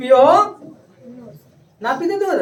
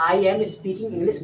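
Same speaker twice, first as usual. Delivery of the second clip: slow, even model sentence for the class to repeat; 3 semitones lower, 5 dB quieter, much slower than usual. Shown as a demonstration. Teacher slowly models the English sentence for a shy pupil. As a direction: spell it out slowly, word by word. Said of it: "तो कैसे बोलेंगे?".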